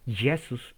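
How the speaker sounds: JESÚS said with a Y-like onset, "Yesus"; Greek pronunciation. Shown as a demonstration. Teacher showing the class the Greek name, Greek pronunciation. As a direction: draw out Greek "Jesús" as Ye-sus. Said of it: "en griego".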